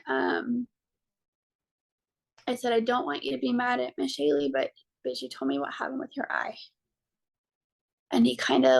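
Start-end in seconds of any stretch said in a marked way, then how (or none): 0.1-6.6 real emotion welling up mid-story; choked-up, breaking into a whisper; tearful. Real, not acted. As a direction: voice catching, near tears, trailing to a whisper. Mother tearing up retelling son's talk.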